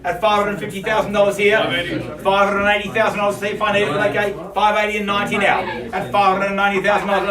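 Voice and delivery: fast auction calling with a laugh; quick-fire auctioneer bid call; auctioneer patter. Acted. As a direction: rattle off the bids like an auctioneer. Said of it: "I've started talking like this".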